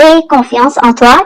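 slowed down, each word clear; slow repeat. Shown as a demonstration. Teacher repeating a French phrase for learners, slow and clear. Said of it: "teacher repeats the phrase slowly".

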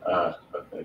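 ordinary talk

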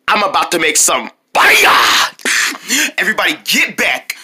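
big theatrical holler on the word fire; yelling. Acted. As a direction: announce it, then bellow the last word. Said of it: "I didn't mean to yell like that".

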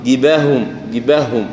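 جباههم with the two هاء run together; خطأ: إخفاء الهاء في جباههم; swallowed ha. Shown as a demonstration. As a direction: slur the doubled ha of جباههم into one. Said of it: "عدم بيانها".

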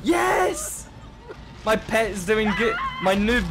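excited cheer. Real, not acted. Gamer cheers his pet's success, high excited shout.

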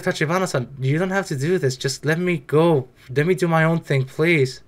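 soft, low pleading; a hint of begging to be let go; lightly acted quiet plea; mock pleading. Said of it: "I feel like".

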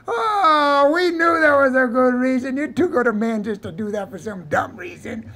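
high, loud wail of mock amusement; mocking hilarity. Vaqueros teasing the man who says he's rich, mocking hilarity. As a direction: whoop it out as if laughed to tears. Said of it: "all the vaqueros started laughing hard".

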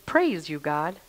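hushed, low praise to God; quietly awed prayer; reverent praise. Acted. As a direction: drop into soft, humble thanks. Reverent praise after cursing talk.

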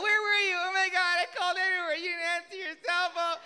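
high, loud mock nagging wife; angry wife. Wife scolding husband home drunk at dawn, high mock nagging. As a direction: scold him like a worried wife. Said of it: "she's like".

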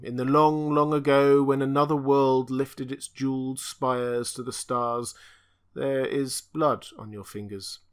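a tortured monster pleading in one unchanging tone; strange stammering voice. Acted. Creature speaks to Conan.

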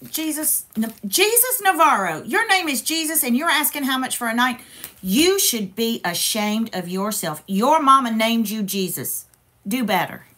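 scolding a rude viewer. Real, not acted. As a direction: tell him off like a shocked church lady. Scolding a rude live-chat viewer.

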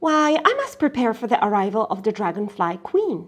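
put-on girl explains her plan, hurried; Miyuki explaining. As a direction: rush through the important news. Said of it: "Miyuki said".

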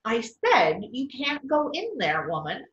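insist, hitting "said"; mild repeated yell. Acted. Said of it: "Peter yelled again".

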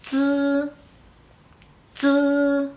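"z" as a long level buzz, no i vowel; silent I. Shown as a demonstration. Teacher showing the mute I, "z" buzzed without an i. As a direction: sustain "z" like dz alone. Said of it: "la I es muda".

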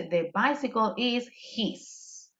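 slow, careful teacher model; slow model sentence. Shown as a demonstration. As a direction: spell it out slowly for the class. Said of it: "Se dice".

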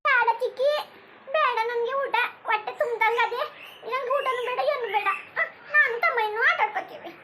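put-on a small child begging mum not to cry; little child voice. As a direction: innocent child's voice. Child figure refuses food.

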